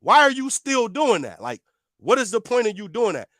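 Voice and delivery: retold exasperated challenge; annoyed, incredulous questioning; getting mad. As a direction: replay a mildly angry demand. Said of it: "now I'm getting mad".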